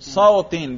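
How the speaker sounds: صوتن ending in -in, sautin; صوتن with the jarr -in ending; genitive ending. Shown as a demonstration. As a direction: say صوتن as "sau-tin", with an i before the n. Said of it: "جر کا کرو".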